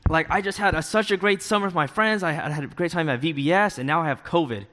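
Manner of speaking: high-pitched, mock-aggrieved complaint; retold indignant protest. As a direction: protest it as if it's unfair. Retold protest to himself about covid.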